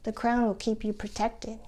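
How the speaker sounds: persuasive, lightly voiced therapist; coaxing therapist. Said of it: "The therapist tried to entice me".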